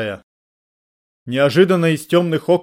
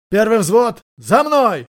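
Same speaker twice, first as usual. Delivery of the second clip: higher, louder rallying order; command; 8 semitones higher, 4 dB louder, much slower than usual. A narrator's reading. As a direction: lead the squad with a shout. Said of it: "скомандовал Джек". (командный возглас, выше и громче)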